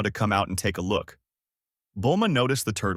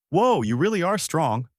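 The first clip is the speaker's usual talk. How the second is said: higher, bright amazed whoa; elated; 7 semitones higher than usual. A narrator's reading. The turtle marvels at Goku after the fight, higher and amazed. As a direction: marvel at his strength.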